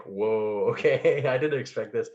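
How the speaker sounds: acted startled reaction. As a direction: play a taken-aback viewer with a little laugh. Acts out a startled viewer reaction.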